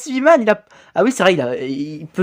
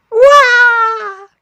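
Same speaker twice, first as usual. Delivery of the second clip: battle cry; 6 dB louder than usual. Acted.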